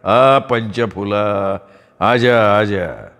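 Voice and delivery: put-on slow, slurred drunk call that fades away; drunken calling. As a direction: lure her in, drunk and drawling. Drunk charmer calls Panchfula.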